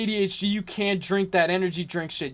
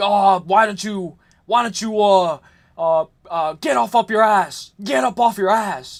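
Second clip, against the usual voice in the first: loud, slow, angry father-like scolding; 5 dB louder than usual. Retelling what a dad says when pissed: imitating an angry dad. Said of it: "my dad will get pissed".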